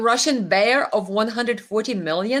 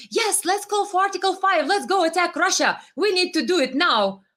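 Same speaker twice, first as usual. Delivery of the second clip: mock eagerness; 6 semitones higher than usual. Mocking Baltic states eager for war.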